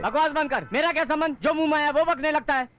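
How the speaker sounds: snappish, mildly angry rebuke; irritated outburst. Acted. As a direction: scold with a touch of temper. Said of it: "गुस्सा बहुत आता है".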